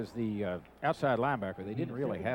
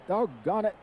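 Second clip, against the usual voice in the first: frustrated exclamation; 10 semitones higher, 5 dB louder than usual. Real, not acted. Color man reacts to flag.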